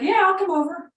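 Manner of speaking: high, loud call of his name; shouting into the phone. Retold or imitated. Caller shouting to a deaf old owner on the phone. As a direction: yell so a deaf man can hear you. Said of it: "And so I started screaming".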